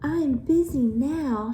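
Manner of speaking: lazy sister shouting. Acted. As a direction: toss it back dismissively. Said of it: "shouted Hilda".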